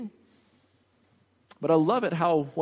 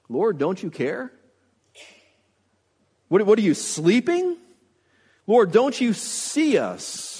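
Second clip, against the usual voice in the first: mock panicked plea. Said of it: "we sound just like these disciples".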